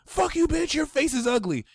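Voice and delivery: squeaky high rude snap, "Fuck you, bitch"; mock rude insult. A Mars in Aries sign telling someone off, high mock snap. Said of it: "So instead of being like".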